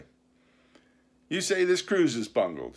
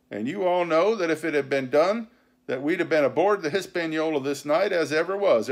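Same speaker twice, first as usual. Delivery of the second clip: loud, raised pirate tirade; vehement; 5 semitones higher, 6 dB louder than usual. A narrator's reading. Silver answering the mutineers' charges, vehement. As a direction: pound out the argument indignantly. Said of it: "talking with a vehemence that shook the house".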